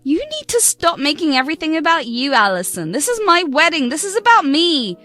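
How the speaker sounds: self-centred rant. Acted. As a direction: make it all about yourself. Bride ranting it's about her.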